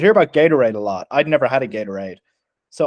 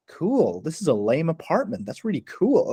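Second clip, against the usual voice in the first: swooping, softer take on her "cool"; imitated earnest approval; 2 semitones higher, 5 dB quieter than usual. Newcomer judging the lame apartment, imitated earnest approval. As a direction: mimic her sincerity, pitch sliding up and down. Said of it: "she was so, like".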